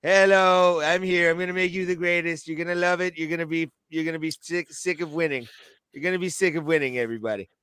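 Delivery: lightly put-on politician's boastful patter; Donald Trump. Wrestling boss promising greatness to the new signing, rough Trump impression. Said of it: "a Trump accent, but I'm doing it".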